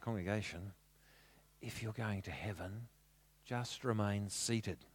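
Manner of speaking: soft, low voice. Retelling a pastor addressing the congregation while a man sleeps: lowered voice. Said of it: "he lowers his voice".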